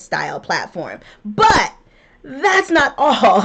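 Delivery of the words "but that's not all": hyped-up pitchman reveal; infomercial voice. Acted. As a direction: sell it like a TV ad host. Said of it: "I sound like an infomercial".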